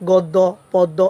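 গদ্য, পদ্য with an open "aw" first vowel; wrong pronunciation. Shown as a demonstration. Teacher shows students the mistake, wrong open-vowel pronunciation of গদ্য, পদ্য. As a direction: say গদ্য, পদ্য as "gawddo, pawddo". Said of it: "এভাবে তো উচ্চারণ নয়".

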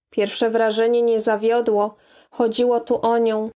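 ordinary delivery

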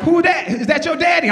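high, loud gossipy voice; a partygoer spotting the shirtless dad; surprised partygoer. Retold or imitated. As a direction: point and gasp at the dad. Onlooker at party.

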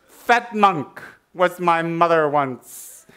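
slow refrain. Acted. Refrain repeated slowly.

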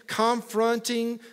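slow, stretched Alabama "confronting"; Alabama accent. Real, not acted. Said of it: "that's my worst Alabama accent ever".

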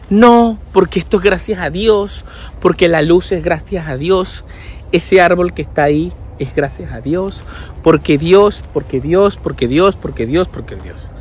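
soft, repetitive mock piety; eterno optimista. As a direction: parody a devout optimist, fading to near silence. Imita a los eternos optimistas. (optimista devoto que se va apagando)

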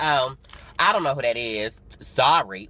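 loud, dismissive mimicry of a rude woman; mocking attitude. Rude coworker brushes off the excited fan, with attitude. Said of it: "Like, with an attitude".

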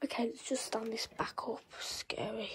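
soft hushed whisper. Real, not acted. Player hiding from the doll, soft whisper. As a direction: keep it to a breath.

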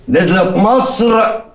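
slow, drawn-out, accusing growl of words; angry accusation. Acted. Husband confronts the wife who went to Cairo, slow angry accusation. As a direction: accuse her, dragging out every word.

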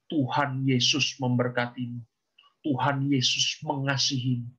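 low, even blessing; doa berkat. Retold or imitated. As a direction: bless a child in a low, calm voice. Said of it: "saya ngomong begini sama dia". (suara rendah dan tenang mendoakan berkat)

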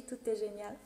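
normal talking voice

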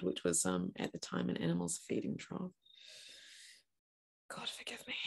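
very soft, fading to a whisper; hushed confession. Acted. Mother admitting she bedded her baby in a trough, hushed confession. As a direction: let it sink away into near silence. Ashamed of the baby's humble bed.

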